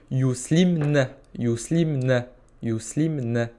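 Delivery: "yuslimna" said slowly and distinctly; slow word demo. Shown as a demonstration. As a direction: model "yuslimna" slowly before repeating it. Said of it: "je vais dire".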